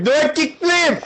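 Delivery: high, slow mocking squeal. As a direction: squeak it out slowly. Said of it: "You're like".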